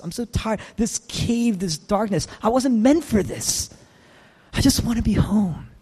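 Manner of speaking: tired of running, plead to go home; mildly acted exhaustion; weary sigh. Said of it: "He's sighing".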